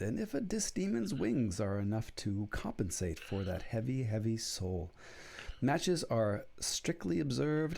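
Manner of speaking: announcer-style ad read with swooping pitch; mock sponsor read. Host reading a joke sponsor message to listeners, mock ad read. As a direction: deliver a tongue-in-cheek sponsor spot, drawing out key words.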